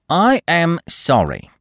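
high, slow, haughty matron; prim Mrs Appledore. A narrator's reading. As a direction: refuse politely but coldly. Narrator voices Mrs Appledore.

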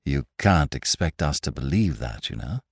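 low-pitched, patient chiding; gentle reproof, trailing off softly; encouraging reprimand. A narrator's reading. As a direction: humour an over-imaginative child. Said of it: "with an accent of reprimand as to an over-imaginative child".

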